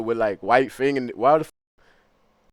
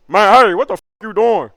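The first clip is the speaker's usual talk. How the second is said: loud, higher yell at someone caught in the act; mock angry yell; 6 semitones higher, 9 dB louder than usual. Racist catching him pissing in the sink, angry shout. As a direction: bark it like an outraged bigot catching him.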